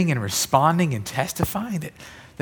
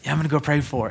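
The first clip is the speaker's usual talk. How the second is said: mock resolve; 3 dB quieter, faster than usual. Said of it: "doing one of these where I'm like".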